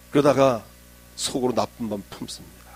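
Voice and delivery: usual speaking voice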